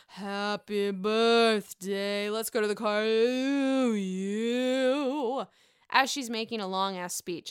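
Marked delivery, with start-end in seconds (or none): 0.1-5.4 lightly imitating Luann. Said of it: "just starts".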